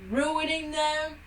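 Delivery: loud, high, slow hammed-up Texan grumble; Texan character. Friend stays in character as a ranting Texan. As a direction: rant like a cartoon Texan. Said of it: "you were getting in character".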